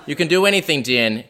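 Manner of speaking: a hint of a doting Boston mom; lightly voiced proud mother encouraging her son; mom impression. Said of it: "spot-on impression of my mother".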